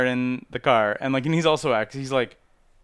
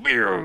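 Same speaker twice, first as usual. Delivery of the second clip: higher, louder car swoosh noise; imitated car zoom; 3 semitones higher, 5 dB louder than usual. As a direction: voice a car zooming in.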